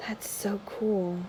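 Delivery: slow, breathless whisper of awe. Real, not acted. Admiring a Hierophant card, hushed slow whisper. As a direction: whisper it slowly to yourself.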